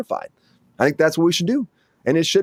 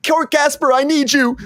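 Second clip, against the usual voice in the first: upset king; 11 semitones higher than usual. Retold or imitated. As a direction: wail for the gasper like a fussy king. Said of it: "the king's like".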